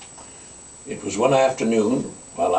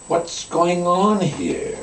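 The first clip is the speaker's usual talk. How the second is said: amazed; 7 semitones higher, much slower than usual. Retold or imitated. Astonished at moving snapshots.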